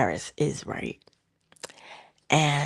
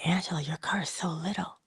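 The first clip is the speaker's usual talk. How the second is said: teasing coworkers; 7 dB quieter than usual. Retold or imitated. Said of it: "they always say".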